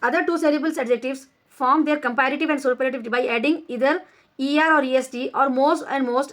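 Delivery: slow, deliberate reading of a grammar rule; measured classroom dictation; slow textbook reading. Shown as a demonstration. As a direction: read each word out slowly for the class. Reads textbook rule aloud.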